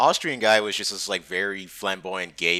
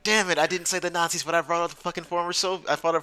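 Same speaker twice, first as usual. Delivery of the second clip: higher-pitched mock self-reproach; retold exasperation; 8 semitones higher, faster than usual. Drunk man berating himself over East Germany remark, comic exasperation. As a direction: protest your own blunder, half laughing.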